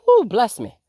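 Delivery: breathy whisper, just after sneezing; a real post-sneeze whisper. Real, not acted. Blessing herself after a sneeze.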